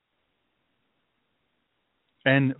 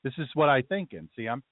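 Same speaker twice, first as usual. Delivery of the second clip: put-on lightly raised Brooklyn Jewish accent; 4 semitones higher than usual. Letting listeners hear his thinking, in a Brooklyn Jewish accent. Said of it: "I'm allowing you to hear the voice".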